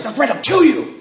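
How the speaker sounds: high, laughing mock threat; boy bluffing his brother; laughing bravado. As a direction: bluff it with a grin.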